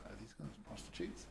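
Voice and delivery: very soft retold whisper. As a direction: murmur it low, as if secretly to friends. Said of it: "I whispered to my friends".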